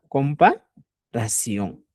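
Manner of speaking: Comparación drawn out very slowly; slow emphasis. Shown as a demonstration. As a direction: spell the word out for the class. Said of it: "teacher stresses key term slowly".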